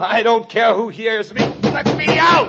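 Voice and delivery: full-voiced, very high yelling; desperate shouting. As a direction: yell to be heard through the house. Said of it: "I heard someone shouting".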